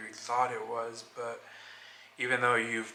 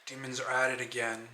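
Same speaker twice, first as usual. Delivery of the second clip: measured, understated poem recital; spoken-word reading. Acted. Reading own writing to open the video, spoken-word delivery. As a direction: read your own reflective piece aloud, evenly paced.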